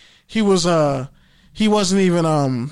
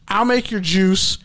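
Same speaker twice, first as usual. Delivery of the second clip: mock polite; slower than usual. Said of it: "in a very polite ... warm way".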